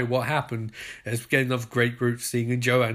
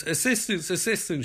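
pleading; 4 semitones higher than usual. Retold or imitated. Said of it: "she pleads".

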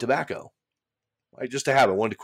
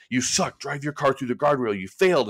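a hint of a sneering inner critic, pitched up; negative inner voice; 5 semitones higher than usual. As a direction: lightly voice the nagging shoulder devil. Inner voice arguing in car.

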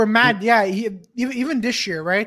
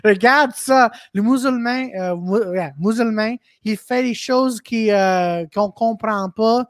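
mock undercover reporter; 3 semitones higher, slower than usual. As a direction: play the nosy reporter. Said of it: "they were basically saying".

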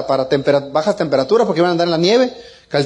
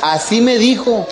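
laughing disbelief; 4 semitones higher, slower than usual. Real, not acted. Father to audience, retelling his daughter's line, laughing. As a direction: laugh it out, still amazed.

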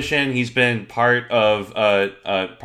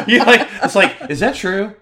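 laughing; 11 semitones higher, 8 dB louder than usual. Real, not acted. Cracking up mid-sentence.

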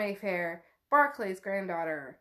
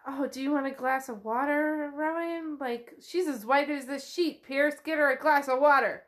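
bustle and order someone for water; fussing relative; 4 semitones higher than usual. Retold or imitated. Relatives fuss over pale Rowan.

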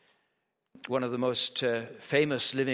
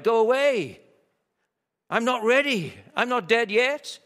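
loud, high shriek of dread; high-pitched, terror-struck; 11 semitones higher, 8 dB louder than usual. A narrator's reading. Dying author cries out at an unseen presence, terror-struck. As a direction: cry out in terror, pleading for more time. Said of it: "His high-pitched, terror-struck voice".

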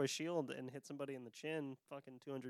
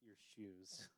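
passive aggressive; 2 semitones lower, much slower than usual. Retold or imitated. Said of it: "the most passive aggressive".

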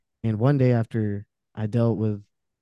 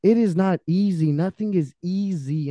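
impassioned outburst; 7 semitones higher than usual. Real, not acted. Impassioned rant at ignorant people.

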